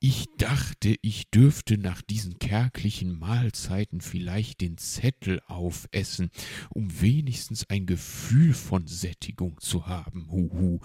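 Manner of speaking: loud, lightly voiced owl; aggrieved Uncle Uhu. Owl hoping to eat the slip, mildly aggrieved character voice. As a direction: make your case with wounded emphasis.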